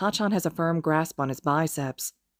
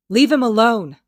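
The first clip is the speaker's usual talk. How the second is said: high, loud pleading yell; protective shout; 7 semitones higher, 9 dB louder than usual. Acted. Izuku blocking Kacchan to protect Haru, yelling high. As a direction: throw yourself into the cry.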